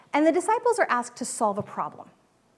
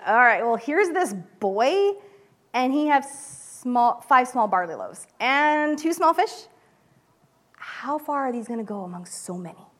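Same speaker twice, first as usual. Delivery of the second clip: like he thinks it won't work; skeptical. Shown as a demonstration. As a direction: Andrew sceptically offering the loaves. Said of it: "I really hear this skeptical voice".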